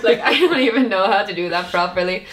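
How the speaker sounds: laughing through the words. Real, not acted. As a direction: giggle while admitting. Laughing at own claim.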